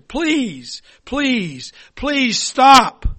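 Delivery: high, desperate pleading; begging, rising to a loud stop; crying out. Acted. Teacup choking on fumes begs the master, pleading. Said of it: "I cried out to the master".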